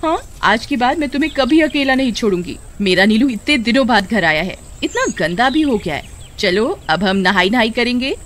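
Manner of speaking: put-on a young woman fussing over her lost pet; Suman, fond and relieved. Narrator voices Suman with dog.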